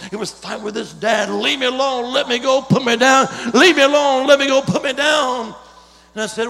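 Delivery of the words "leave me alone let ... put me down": put-on loud child yelling. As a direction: fight and yell. Boy screaming retold again.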